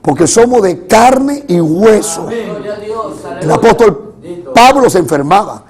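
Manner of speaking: emphatic sermon cadence; preaching. Real, not acted. Preacher assures congregation of victory despite illness, preaching. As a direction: proclaim it to the congregation with force.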